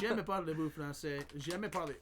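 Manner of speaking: halting attempt at French. Shown as a demonstration. Asked by a friend to say it in French, attempted French. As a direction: try a line of beginner's French. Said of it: "Say it in French".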